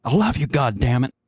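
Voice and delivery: mock-angry declaration, jumping high at first; angry and accusatory. Husband walking in on his wife, mock angry and accusatory. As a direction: accuse them of being loved. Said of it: "very angrily and accusatory".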